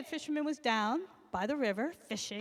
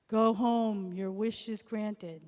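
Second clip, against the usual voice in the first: slow solemn granting; magic fish voice; 3 semitones lower, 4 dB louder, slower than usual. Acted. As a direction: grant the wish grandly.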